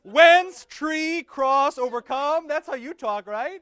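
loud, high, laughing fake delight at the confusing wording; sarcastic mock enthusiasm. Mocking the confusing preface to the class, loud and sarcastic. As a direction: gush sarcastically that it's so easy, laughing.

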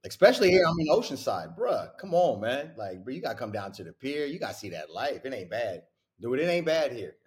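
high, hyped bro invite; frat bro. Real, not acted. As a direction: hype up the beach town.

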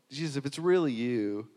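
questioning, unsure, with a lift of doubt; hesitant if-it's-really-you; doubtful asking. Retold or imitated. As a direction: ask as if not quite sure it's him. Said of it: "it sounds in the way that it's translated there".

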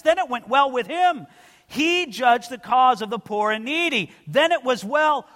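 rising, preaching read of scripture; declaiming the prophet's words from the pulpit. Acted. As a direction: proclaim the text to the congregation. Reads the Jeremiah passage aloud.

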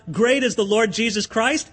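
declared as a public cry; standing up to cry out his praise; mock crying out. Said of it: "If I stand up and cry out".

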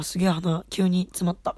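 suddenly stuffed-up nose; blocked nose. Real, not acted. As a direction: talk through a blocked nose.

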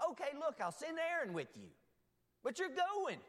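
mock exasperated command; insistent Lord. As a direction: put your foot down as God.

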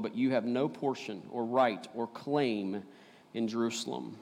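measured, slowed Bible reading to the congregation; solemn public reading of scripture. Acted. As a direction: read the passage out with weight. Pastor reads Nehemiah scripture aloud.

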